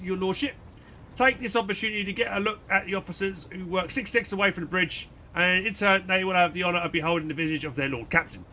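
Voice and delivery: formal, dutiful first officer; stiff officer voice. Acted. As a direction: speak like a loyal seneschal. Reads Abelard's lines in character.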